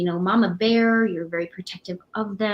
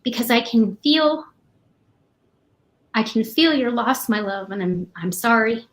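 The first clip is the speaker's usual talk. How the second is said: getting emotional; 2 semitones higher than usual. Real, not acted. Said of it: "I'm gonna get emotional here".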